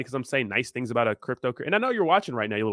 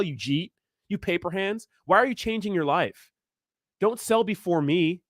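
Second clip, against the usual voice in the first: mocking greedy holders; 4 semitones higher than usual. Mocking holders who attack sellers, whiny and high. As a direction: whine it like a sore bagholder. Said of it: "people just shit on you".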